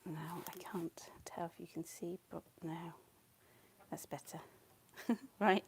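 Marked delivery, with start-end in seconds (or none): 0.1-4.4 soft unvoiced whisper. Real, not acted. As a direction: hush it right down. Adjusting volume, whispering to mic.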